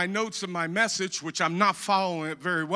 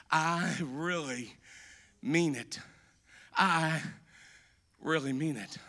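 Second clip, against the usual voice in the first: whisper-close, earnest; hushed sincerity; 5 semitones lower, 8 dB quieter than usual. Acted. Hushed restatement after shouting.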